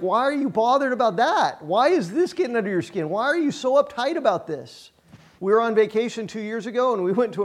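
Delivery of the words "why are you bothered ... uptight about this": imitated puzzled questions, pitched higher with swoops; curious, puzzled. Wife and kids questioning his impatience, imitated puzzlement. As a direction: mimic baffled family members asking why. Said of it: "give me the most curious, like".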